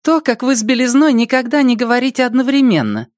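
high, fast, mocking chat voice; high quick chat voice. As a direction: rattle it off high and teasing. Anomie voice in chat. (высокий быстрый голос из чата)

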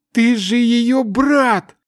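high, slow desperate shout. A narrator's reading. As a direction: yell to wake him up. Shouting at unresponsive friend.

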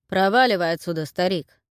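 gruff bark. Acted. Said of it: "рявкнул тип из театра".

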